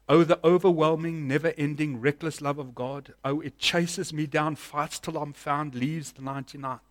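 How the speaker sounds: measured recital of worship lyrics; spoken lyric recital. Acted. Preacher recites worship song lyrics to congregation, measured recital.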